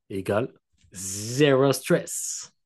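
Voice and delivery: slow, drawn-out "zéro stress" in a put-on English-German accent; accent anglais allemand exagéré; mock English-German accent. Shown as a demonstration. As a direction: stretch it out like a German speaking English. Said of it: "Avec mon accent anglais allemand".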